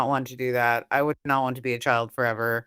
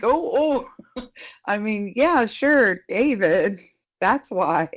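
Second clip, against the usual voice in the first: high, flustered cartoon fib; vintage cartoon voice; 7 semitones higher, 3 dB louder, slower than usual. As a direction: stammer like a caught cartoon character. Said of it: "a comical impression of a cartoon with something to hide".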